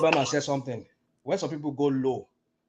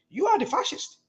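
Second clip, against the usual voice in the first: much higher, forceful accusation; accusing outburst. Real, not acted. Speaker hurling the fascist label back at his opponent, heated. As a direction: throw the label straight back at him. Turning the insult back on rival.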